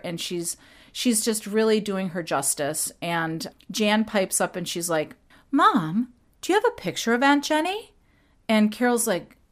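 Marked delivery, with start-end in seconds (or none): 5.5-7.9 much higher and fast, an eager question; eager Jan. Retold or imitated. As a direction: rush it out like an excited girl. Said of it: "I'm gonna be doing some impressions".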